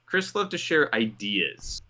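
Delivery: loved stretched and stressed, slow delivery; dramatic emphasis on loved. Shown as a demonstration. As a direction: lean hard on loved, slowly. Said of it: "Chris liked to use emphasis".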